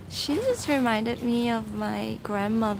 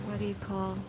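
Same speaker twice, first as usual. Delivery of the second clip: echoey poolside voice; speaking from inside the pool; at an indoor pool; 5 dB quieter than usual. Real, not acted. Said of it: "hope you guys can hear me".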